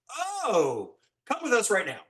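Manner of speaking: urgent wardrobe. Retold or imitated. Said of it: "So wardrobe went".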